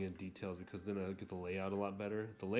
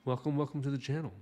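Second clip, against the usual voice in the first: excited; 6 semitones higher, 6 dB louder, faster than usual. Real, not acted. Channel intro greeting.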